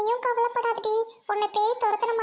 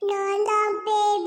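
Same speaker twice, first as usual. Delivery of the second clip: slow, drawn-out spooky ghost; eerie, stretched-out ghost call; 4 dB louder, slower than usual. Acted. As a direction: announce yourself as a haunting ghost. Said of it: "என்ன குரல் இது?".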